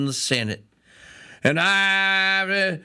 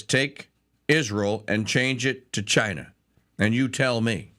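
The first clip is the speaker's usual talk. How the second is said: usual speaking voice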